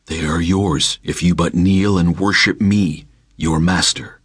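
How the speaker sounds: a calm spirit daring him; tempting spirit. Acted. Spirit demands worship.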